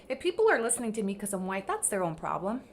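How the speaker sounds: quick, offhand, mocking her shrug; dismissive quote. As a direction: toss it off like it doesn't matter. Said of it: "But all she said".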